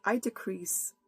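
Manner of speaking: earnest prayer. Acted. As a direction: pray aloud, humbly, to God before the sermon. Opens with a prayer.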